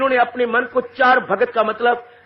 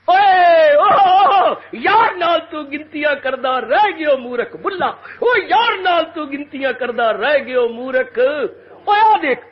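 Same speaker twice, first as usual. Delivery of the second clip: fiery rebuke; 3 semitones higher, 3 dB louder than usual. Acted. Bulleh Shah shouts at himself.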